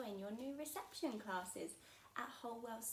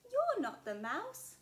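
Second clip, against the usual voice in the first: louder, slow accusing little monster; bold Gruffalo child; 7 semitones higher, 9 dB louder than usual. Acted. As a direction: tell the snake off boldly. Child confronts fox.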